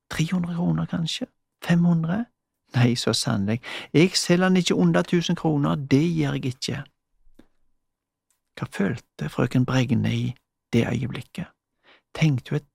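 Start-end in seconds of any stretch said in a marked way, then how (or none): 0.1-6.8 greedy mumbling. Acted. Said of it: "mumla hun videre med seg selv".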